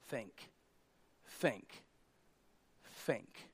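hushed emphasis; soft repetition. Real, not acted. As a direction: let each one sink in. Dropped repeated word.

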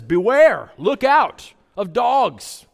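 "Beware" barked out loud, then slow and high; a loud warning call of "Beware"; calling out "Beware" at the dogs. Shown as a demonstration. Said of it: "just like the yard sign".

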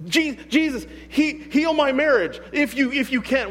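high, stammering mock prayer; hesitant plea. Doubter asking Jesus to heal a marriage, hesitant. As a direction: plead uncertainly, tripping on the first words.

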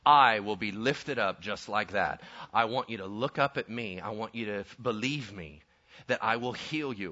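low-pitched, solemn appeal; Jesus. Acted. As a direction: speak as a saviour making a measured promise. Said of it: "And Jesus said".

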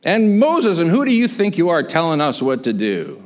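acted challenge, high on the name then falling; indignant complaining. Israelites challenging Moses's authority, indignant grumbling. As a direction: confront a leader with mock indignation. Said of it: "grumbling and complaining again".

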